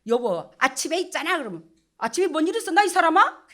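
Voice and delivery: a hint of a husband brushing off his wife. Husband asking his wife what happened that morning, lightly acted loud puzzlement. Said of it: "이 남자들은 인식이야".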